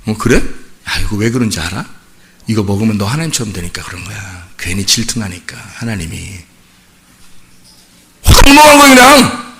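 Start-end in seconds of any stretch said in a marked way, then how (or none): 0.1-6.4 softer and lower, coaxing and sly; soft-spoken serpent. Acted. Serpent persuading Eve to eat the fruit, soft coaxing voice. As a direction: sweet-talk her quietly, like a tempter. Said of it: "너무 부드럽게 얘기하니까".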